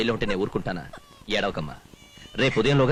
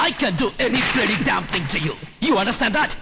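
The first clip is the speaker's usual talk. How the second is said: a cold threat spelled out slowly; slow menacing threat; 8 semitones higher, much slower than usual. Acted. Officer threatening the prisoner, slow menacing threat. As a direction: drag every word out slowly, menacing.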